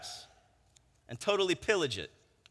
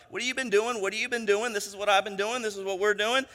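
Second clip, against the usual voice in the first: lightly voiced small talk, pitched up; catching-up chatter; 3 semitones higher, faster than usual. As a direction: trade pleasantries in a higher voice.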